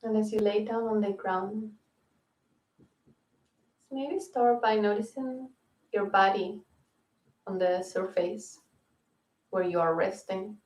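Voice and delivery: unhurried yoga nidra guidance; calm guiding voice, phrase by phrase; guided meditation. Real, not acted. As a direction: ease them into rest with spacious pauses.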